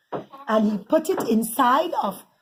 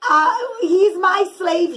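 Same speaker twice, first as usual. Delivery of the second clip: stern refusal; 6 semitones higher, 4 dB louder, slower than usual. Acted. Yosef refusing the brothers.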